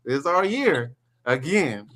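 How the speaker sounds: slow, drawn-out teasing imitation; mocking fan impression. Host teasing Rod about his team, mock fan chant. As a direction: lightly mimic a hopeful fan, stretching it out. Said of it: "That's what y'all sound like".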